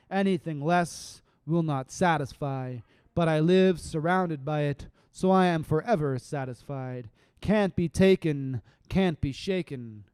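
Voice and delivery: rhythmic, drawn-out poetry reading; measured spoken word delivery; spoken word poem. Acted. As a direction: let the lines land slowly.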